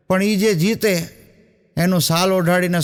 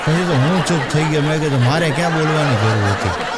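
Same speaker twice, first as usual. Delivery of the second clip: laughing self-mockery; 3 semitones lower than usual. Real, not acted. Teller mocks his own silence.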